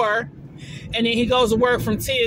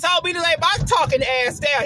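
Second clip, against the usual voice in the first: higher-pitched sassy paraphrase of his order; exaggerated telling-off; 5 semitones higher than usual. Woman exaggerating how her date told her to lie back, sassy. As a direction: embellish his order with attitude. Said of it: "He didn't say it like that".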